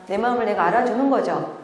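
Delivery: usual speaking voice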